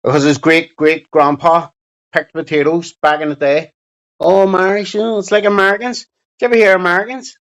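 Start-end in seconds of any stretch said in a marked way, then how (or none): 4.2-7.4 mocking Chico. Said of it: "Chico's one of those English clowns that claims to be Irish".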